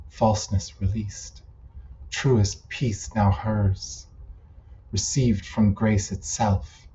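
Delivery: measured recital broken into short phrases; poem reading. Acted. Poet breaking out a poem that doesn't rhyme, measured recital. Reads own poem aloud.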